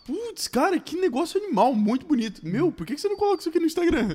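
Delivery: high, fast gushing praise; gushing excitement. Retold or imitated. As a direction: rave about it like a fan. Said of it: "A tua reação não é falar".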